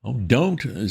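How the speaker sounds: a touch of wistful longing. A narrator's reading. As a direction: sigh it out dreamily. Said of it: "said Mister Wooster wistfully".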